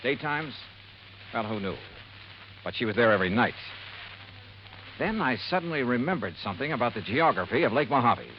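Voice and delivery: measured private-eye narration over music; story narration. A narrator's reading. Detective telling his listener what the calls turned up, in steady narration. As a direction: recount the case to the listener.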